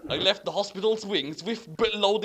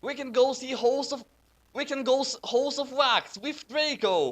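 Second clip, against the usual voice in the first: put-on higher, bubbly girl reading; giggling girl voice; 8 semitones higher than usual. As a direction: read it like a giggly teen. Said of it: "giggled Vampire".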